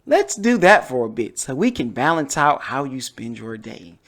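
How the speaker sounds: lightly voiced mom, gentle but firm; a hint of a caring mother nudging. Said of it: "my mom voice".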